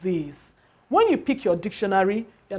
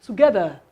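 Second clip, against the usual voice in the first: Together with stress on GE; Together, GE raised a little; correct stress; faster than usual. Shown as a demonstration. Teacher repeats the correct stress for students, GE stressed. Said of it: "that prominence. That higher what? Pitch".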